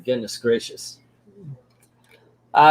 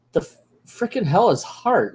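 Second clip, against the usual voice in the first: higher, baffled outburst; incredulous; 5 semitones higher than usual. Real, not acted. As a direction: question it in disbelief. Baffled reaction to the book.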